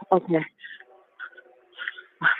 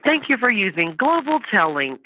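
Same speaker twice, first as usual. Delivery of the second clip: tinny phone line; on a prison phone. Real, not acted. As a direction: sound like a recorded jail call. Recorded prison phone call played.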